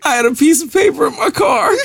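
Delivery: pushing words through laughter; laughing. Real, not acted. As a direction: voice cracking with laughter. Laughing while telling story.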